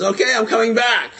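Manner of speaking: high, loud call to a crowd; retold bold proclamation; showman's announcement. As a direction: call it out like a triumphant performer. Stuntman announces return to crowd.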